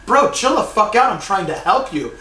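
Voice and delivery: mock-pleading, talk him down from fighting; exasperated retold plea. Retelling a fight he broke up.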